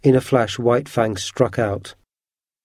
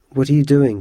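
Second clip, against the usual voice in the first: higher, louder alarmed question; alarmed cry; 4 semitones higher, 4 dB louder than usual. Acted. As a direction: cry out to stop him. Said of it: "cried Scott".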